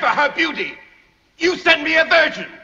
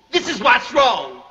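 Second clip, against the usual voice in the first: angry shout; 12 semitones higher than usual. Acted. Master scolding the servant.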